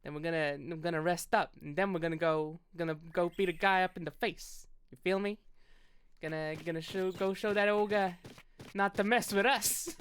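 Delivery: easy New York swagger; a hint of a New York hustler; lightly held New York voice. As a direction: talk like a street tough from New York. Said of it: "how I'll get in New York is".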